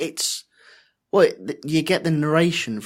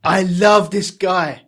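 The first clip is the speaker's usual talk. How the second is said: louder, higher and slow with delight; gushing fan; 5 semitones higher, 7 dB louder, slower than usual. Real, not acted. Host gushing about Spears, loud and delighted. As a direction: swoon over the hero.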